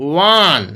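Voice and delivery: ওয়ান stretched so the wa onset is heard; sounding out one. Shown as a demonstration. Teacher points out the article before one way road: ওয়ান begins with wa. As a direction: give ওয়ান a clear wa at the start. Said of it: "ওয়া উচ্চারণ হচ্ছে".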